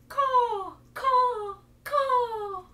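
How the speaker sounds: loud, high cawing crow. Shown as a demonstration. Teacher cawing loudly like a crow. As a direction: caw out like a crow.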